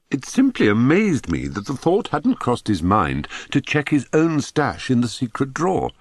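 usual speaking voice

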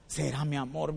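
low, soft, hesitant question; doubtful wife. Retold or imitated. Wife doubting her husband's idea, soft low hesitation. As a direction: play the unsure wife, dropped low and quiet.

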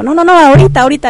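impatient high demand, retold; insistent demand. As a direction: play the pushy young man who won't wait. Drugged young man refuses waiting.

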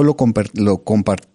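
tripping over "compartamos", the word breaks off twice; stumbling tongue-tied on "compar-", then slowing down. Real, not acted. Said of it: "estoy con la lengua trabada". (lengua trabada, tropezando con la palabra)

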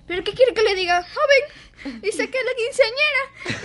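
mother mocking the teacher's age; sarcastic mother. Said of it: "Bien sarcástica tu mamá".

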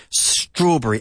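STRAWBERRY stressed on "STRAW"; Strawberry with a weak, short "bree" ending; first-syllable stress. Shown as a demonstration. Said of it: "Enfatizando la primera sílaba".

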